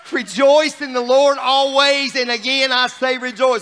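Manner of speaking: joyful preacher's declaration; rejoicing. Real, not acted. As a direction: proclaim it with joy, stretching the words. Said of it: "No, it says this, rejoice".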